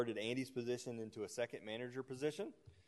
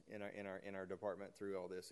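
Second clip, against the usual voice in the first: choking; 2 semitones lower, 6 dB quieter than usual. Real, not acted. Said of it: "sorry, I'm choking here".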